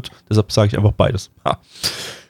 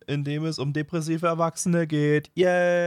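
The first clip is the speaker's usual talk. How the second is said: deadpan host; 4 semitones higher, 8 dB quieter than usual. Pretend. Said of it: "kids host parody".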